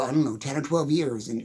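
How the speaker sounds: ordinary talk, nothing marked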